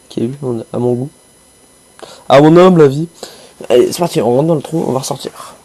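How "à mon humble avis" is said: mock pompous. Mock formal aside.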